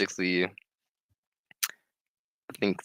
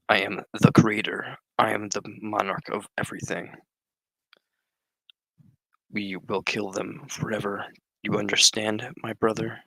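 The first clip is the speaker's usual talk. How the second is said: mock Darth Vader. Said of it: "Darth Vader would be proud of that voice".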